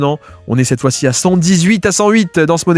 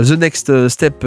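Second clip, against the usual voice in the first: attempted English accent on "the next step"; French speaker putting on an English accent; much slower than usual. Shown as a demonstration. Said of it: "avec mon bel accent, euh, anglais".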